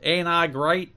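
mild catchphrase mimicry; Jeff Jarrett. Podcaster quoting Russo's Jarrett act with a modest impression. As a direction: lightly put on the wrestler's brag.

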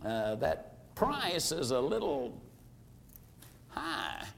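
soft, halting objection with long pauses; timid, hesitant. Acted. Timid prospect objects to the price, hesitant. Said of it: "a little timid or a little hesitant".

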